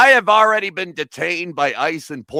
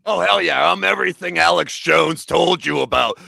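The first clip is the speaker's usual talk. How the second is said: loud, higher heel brag; wrestler boast; 3 semitones higher, 5 dB louder than usual. Acted. His wrestler persona boasting to the hosts, loud. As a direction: gloat like a wrestling villain.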